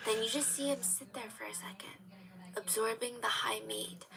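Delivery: hushed unvoiced narration; whisper. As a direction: breathe it out softly. Describing him sitting after the bite.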